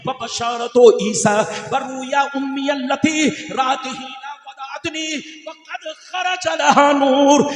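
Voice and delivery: ringing, chant-like recitation building to long-held notes; Arabic hadith recitation. Real, not acted. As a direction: recite sacred Arabic in measured, sustained phrases. (तरन्नुम में अरबी हदीस की तिलावत)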